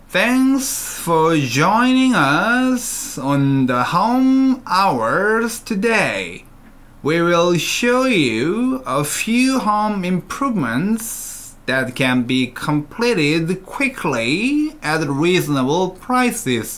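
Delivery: slow, unhurried reading, words flowing together, "us" drawn out. Showing that slow reading can still keep linking: slow with words still linked. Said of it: "이거를 천천히 읽어볼게요".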